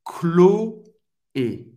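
Chloé whispered as klo-AY; Chloé sussurrado. Shown as a demonstration. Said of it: "Duas sílabas".

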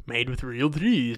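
slowed, sarcastic repeat of the label; mock slogan. Sarcastically repeating the macaroni box slogan. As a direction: say it with scorn.

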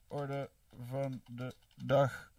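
very slow, word by word; drawn-out dictation. Real, not acted. Streamer typing out a poll option, slow dictation. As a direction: stretch each word as if typing along. Spelling out phrase while typing it.

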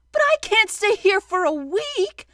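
high, loud, anxious objection; dismayed protest. Acted. Pooh told about a week, dismayed. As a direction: protest in alarm.

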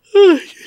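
loud, high sighing yawn; big yawn. Real, not acted. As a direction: let out a long tired yawn. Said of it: "See, I'm yawning again".

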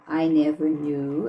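I never knew then a clear pause; pause after knew. Shown as a demonstration. Teacher shows the pause in the line. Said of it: "é uma pausa".

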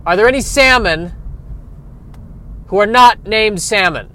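loud, high, exasperated disbelief; incredulous eel. Acted. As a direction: berate the school of fish.

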